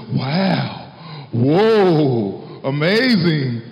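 playful wow, whoa, amazing; breathy mock wonder at decorations; mock amazement. Shown as a demonstration. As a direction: act out being dazzled by lights. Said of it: "this is what the lights and all that are supposed to do".

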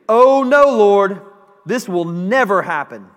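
loud alarmed protest. Acted. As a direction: cry out to stop it happening. Peter rebuking Jesus.

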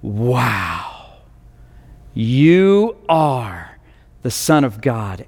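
hushed wonder, as if in worship; awed disciples. Acted. Disciples in the boat awed by Jesus, low and hushed. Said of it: "the disciples go".

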